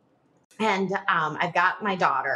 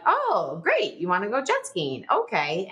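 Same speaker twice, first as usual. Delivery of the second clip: mock enthusiasm; 3 semitones higher than usual. Wife reacting to husband's jet ski plan, mock enthusiasm. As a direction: put on a lightly sarcastic cheer.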